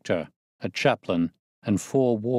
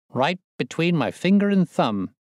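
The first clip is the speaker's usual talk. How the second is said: much higher, louder exclaiming; crying out; 8 semitones higher, 3 dB louder than usual. A narrator's reading. Prendergast cries out to the narrator where the money is. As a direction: sing it out triumphantly. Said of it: "he cried".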